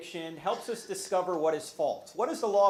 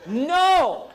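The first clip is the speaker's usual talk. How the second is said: loud, high laughing no; emphatic no; 10 semitones higher, 8 dB louder than usual. Real, not acted. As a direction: shut down the idea with a laugh. Denies book is about tithing.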